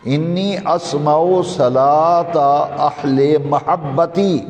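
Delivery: slow, drawn-out Arabic recitation; hadith recitation. Real, not acted. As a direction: stretch the long vowels, measured and deliberate.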